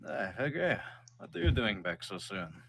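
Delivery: gentle dad greeting his son back home; father's voice. Acted.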